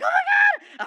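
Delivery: high shrieking fanboy squeal; excited scream. Retold or imitated. Fan shrieks alone in his car, starstruck scream. Freaking out after driving past hero.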